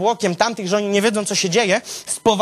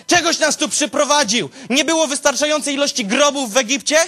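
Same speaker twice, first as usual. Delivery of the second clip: angry crowd; 6 semitones higher than usual. Acted. Israelites shout at Moses.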